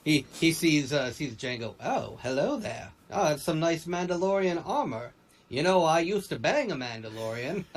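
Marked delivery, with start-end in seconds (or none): 1.8-7.6 higher, playful Obi-Wan voice; hammy Obi-Wan quote; Obi-Wan impression. Voicing Obi-Wan seeing Jango.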